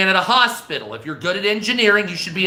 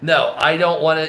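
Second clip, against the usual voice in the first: lower, firm mock refusal; refusing; 4 semitones lower than usual. Telling Steven Crowder no, lower and dismissive. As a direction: drop the voice and shut it down. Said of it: "I'll be like".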